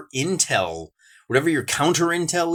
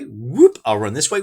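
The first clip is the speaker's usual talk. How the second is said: mock French captain; 3 dB louder than usual. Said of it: "the French went like this".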